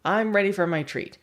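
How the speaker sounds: high eager dog voice; voicing the dog. Trainer voicing an eager dog wanting the treat. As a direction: play the dog begging for its treat. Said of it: "Dog is like".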